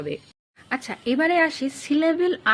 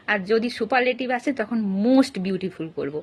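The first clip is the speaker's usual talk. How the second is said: slow summing up; 2 semitones lower, slower than usual. Shown as a demonstration. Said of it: "teacher sums up rule".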